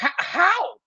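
high-pitched disbelief; baffled, rising squeal of objection; incredulous. Real, not acted. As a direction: protest it as if it makes no sense. Host scoffs at the comedian's refusal.

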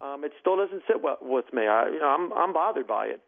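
saddened. Real, not acted. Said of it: "really saddened by the decision".

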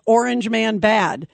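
slow, mock Southern delivery; Southern accent. Shown as a demonstration. Host coaching the caller to sound like Stan, mock Southern accent. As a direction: draw it out in a light Southern accent. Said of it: "you need to say it with a Southern accent".

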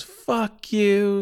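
high-pitched mock outrage; acted defiant curse. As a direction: spit it back as the insulted mom. Mom cursing back at heel.

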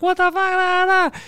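imitating her in a high squeal; mock freak-out. Girlfriend opening the ring box, imitated freaking out. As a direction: squeal it way up high, trailing into nonsense syllables. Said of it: "she opened and started freaking out".

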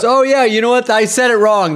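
high-pitched imitation of a comic onstage; mock stage admission; comedian backtracking. Retold comic backing down onstage.

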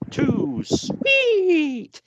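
high shouted catchphrase; shouting. Retold or imitated. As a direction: yell it like a crowd. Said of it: "as everyone shouts".

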